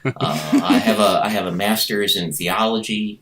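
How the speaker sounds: lightly voiced courteous introduction; mock-polite, tidy self-presentation; white guy impression. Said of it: "white guy impression".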